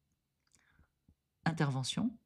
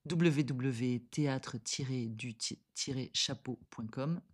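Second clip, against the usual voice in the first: slow, muddled spelling out; stumbling over the web address; 3 semitones lower, 4 dB quieter, much slower than usual. Real, not acted. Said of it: "Ça, c'est un petit peu embrouillé".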